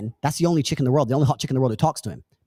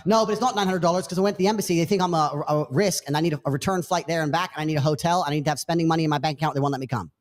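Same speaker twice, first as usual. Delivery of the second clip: put-on girl's voice; faster than usual. Imitating the girl listing costs to the man, fast. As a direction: rattle off excuses, pleading.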